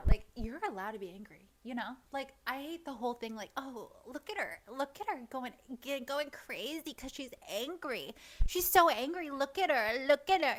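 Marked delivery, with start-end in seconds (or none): 3.6-10.6 higher-pitched mock gossiping; mocking onlookers. Imitating critics who point at her anger, mocking. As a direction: imitate people pointing at an angry woman.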